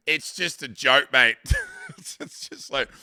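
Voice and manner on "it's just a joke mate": lightly hammed-up Aussie protest; mock-defensive Aussie bloke; Australian excuse-maker. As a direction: play at brushing off offence. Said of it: "this is the Australian argument".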